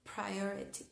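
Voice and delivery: "Priority" con la P exagerada; exaggerated plosive p. Shown as a demonstration. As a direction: marca fuerte la P de "Priority". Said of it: "Yo se los hago exagerado". ("Priority" con una P explosiva)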